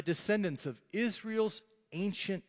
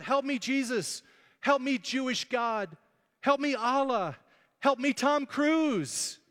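higher, louder mock screams for help; panicked screaming; 8 semitones higher, 4 dB louder, slower than usual. Preacher retelling Ricky Bobby's panic on the track, hammed-up screaming. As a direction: cry out to every god in panic. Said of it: "And he screams out".

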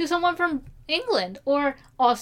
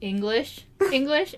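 ENGLISH pitched up high, set above American; 4 dB quieter than usual. Shown as a demonstration. Host contrasting English with American English, pitched up high. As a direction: say ENGLISH up high, as the superior kind. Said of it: "when I said English English, it was up high".

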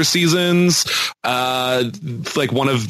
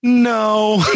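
higher, laughing mock refusal; imitating his refusal; 8 semitones higher than usual. Podcaster re-enacts his rejection of a kiss, laughing mock refusal. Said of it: "and he's like".

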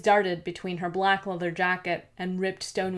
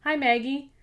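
calling out; 7 semitones higher, 5 dB louder than usual. Acted. Lara calls out across the lab.

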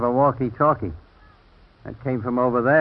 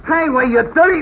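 loud high outraged cry; angry shout; 7 dB louder than usual. Acted. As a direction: yell at an unseen attacker. Struck in the dark.

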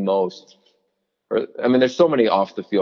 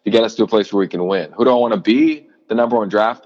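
self-talk, louder; 5 dB louder, faster than usual. Retold or imitated. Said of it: "of Larry being like".

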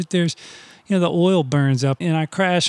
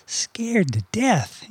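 scared; 4 semitones higher, 3 dB quieter, much slower than usual. Real, not acted. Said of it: "You can hear it in my voice".

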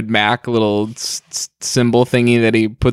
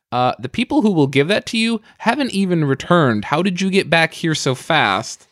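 quoted employee; 5 semitones higher than usual. Retold or imitated. Retold booth employee question.

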